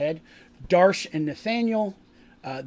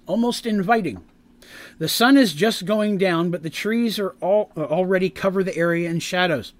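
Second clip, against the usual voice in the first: slightly raised, emphatic game master narration; scene narration; 3 semitones higher, 4 dB louder than usual. Acted. Game master opens the graveyard scene for players, emphatic narration. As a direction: set the scene with deliberate weight.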